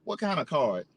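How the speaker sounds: curt, dismissive imitation; blunt reply. The shoeshiner answering the customer, a mildly curt imitation. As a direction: toss it off with mild attitude. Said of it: "this motherfucker gonna say to me".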